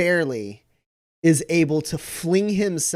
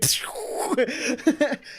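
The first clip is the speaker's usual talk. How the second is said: flare gun noise; 11 semitones higher than usual. Retold or imitated. Imitates flare gun firing.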